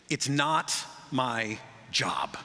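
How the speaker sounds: slow, dragged-out "It's not my job"; lazy shrugging refusal; sullen refusal. Retold or imitated. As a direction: drawl it like a sulky worker. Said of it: "when people say that".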